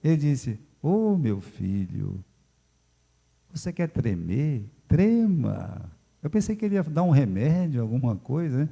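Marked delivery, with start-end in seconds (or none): 0.8-5.9 slow, calm fatherly advice; a touch of calm pastor Félix. Retold or imitated. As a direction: soothe like an unhurried elder. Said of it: "Com aquela calma".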